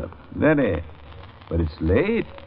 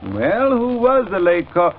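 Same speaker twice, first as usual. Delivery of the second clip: calling out; 5 semitones higher, 4 dB louder than usual. Acted. Professor calls out to the house.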